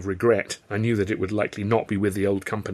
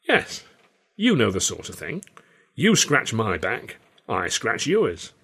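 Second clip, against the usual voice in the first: put-on sly old showman voice; 2 semitones higher, slower than usual. Carno's insinuation, slow.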